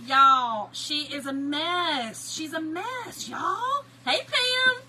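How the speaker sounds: loud, rising to a high squeal; exasperated amusement. Real, not acted. Telling viewers her cousin's a mess, squealing.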